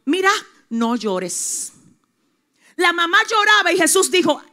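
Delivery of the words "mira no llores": soft and slow, consoling; gentle comfort. Acted. Jesus consoles the weeping widow, soft and slow. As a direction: tenderly soothe a grieving mother. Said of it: "le dijo a la mamá llorando".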